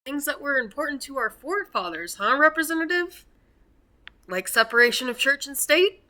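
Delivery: sarcastic. Real, not acted. Sarcastic retort to the representative.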